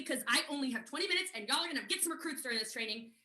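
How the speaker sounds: rushed explanation against the clock; talking quickly. Real, not acted. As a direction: rattle it off, short on time. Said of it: "I am talking very quickly".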